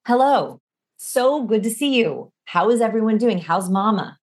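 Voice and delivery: confident, easy greeting with falling tones; relaxed out-breath greeting. Shown as a demonstration. Coach models walking into the room, relaxed and confident. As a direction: greet them on a released breath, unhurried. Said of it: "speaking on the out breath".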